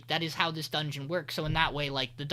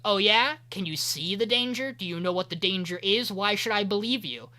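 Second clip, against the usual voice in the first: sceptical challenge; 3 semitones higher, 4 dB louder than usual. Retold or imitated. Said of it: "the old man goes".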